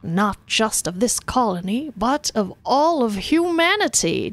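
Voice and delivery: slow, swelling speech rising at the end; hammed-up political oratory; grandiose governor. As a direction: build it to a big finish. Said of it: "he says".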